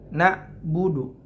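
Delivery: na'budu with the ain dropped like a hamzah; wrong ain. Shown as a demonstration. Teacher showing the wrong na'budu, slow and mock. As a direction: say na'budu slowly with a plain glottal stop. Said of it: "Tidak tepat".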